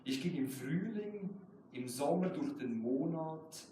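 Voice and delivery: measured German poetry recital, slow on key lines; slow reading of a German poem. Acted. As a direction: read it like your own poem at a reading. Poet reads own German poem.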